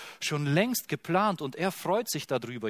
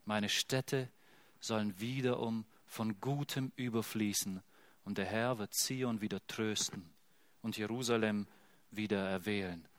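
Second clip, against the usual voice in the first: softer, lower, hushed promise; quiet scripture reading; 4 semitones lower, 6 dB quieter than usual. Acted. Preacher reads God's promise softly, hushed and tender. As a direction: let the comfort settle gently.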